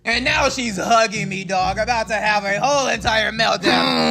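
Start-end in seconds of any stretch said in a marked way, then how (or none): 1.4-4.1 slowed, strained yell to get her off; pushing off a clingy teammate, yelling; mock shove-off yell. Kate hugging him, meltdown.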